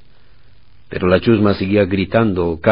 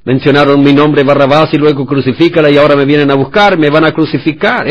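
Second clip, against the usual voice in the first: panicked thought; 6 semitones higher, 7 dB louder than usual. Retold or imitated. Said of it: "estaría pensando".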